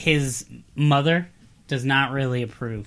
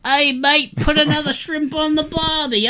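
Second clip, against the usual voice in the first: high, hammed-up Australian accent; 12 semitones higher, 4 dB louder, slower than usual. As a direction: ham up a jokey Australian voice. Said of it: "Do you wanna hear my Australian accent?".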